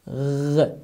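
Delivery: a gargled gh alone; ghain sound. Shown as a demonstration. Teacher isolates the gargled gh sound. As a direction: rasp "gh" at the back of the throat. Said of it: "is the name of".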